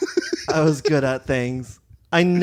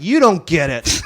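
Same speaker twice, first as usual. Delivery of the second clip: sassy diva voice; 6 dB louder than usual. Acted. Acted diva in mall story.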